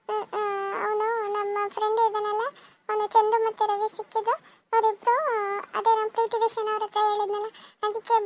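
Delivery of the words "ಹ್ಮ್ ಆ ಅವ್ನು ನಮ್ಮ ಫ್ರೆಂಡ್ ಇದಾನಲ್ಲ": teary apology. Acted. Son apologising to mother.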